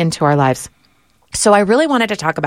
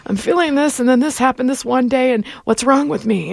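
higher, whiny sick patient; 8 semitones higher than usual. Retold or imitated. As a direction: list symptoms like a sick patient. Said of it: "that's my sick voice that I just did".

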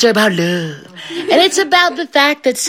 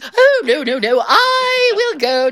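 insistent mother; 9 semitones higher, slower than usual. Acted. Bride's mother insists on going.

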